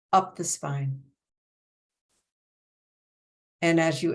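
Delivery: measured breathing cues, long silences between phrases; guided meditation. Acted. Teacher guiding breath along the spine, measured meditation voice.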